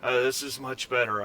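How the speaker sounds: lightly slurred, woozy words; a hint of drunken slurring; slightly drunk slur. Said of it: "He's slurring his words a little bit".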